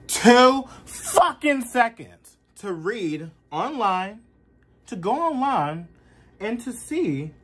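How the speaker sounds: high, loud, frustrated outburst; real exasperated rising rant. Real, not acted. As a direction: vent hard at people who won't read the news. Heated rant about Gaza ceasefire.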